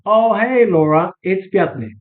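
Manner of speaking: put-on bright, friendly hello as if old friends; familiar greeting. Shown as a demonstration. Caller greeting the receptionist like an old friend, breezy and familiar. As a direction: greet her like you've known her for years. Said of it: "the tone says everything".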